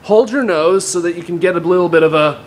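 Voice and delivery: theatrical swooping villain voice; Bane voice. Shown as a demonstration. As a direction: swoop all over the place. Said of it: "You go like this".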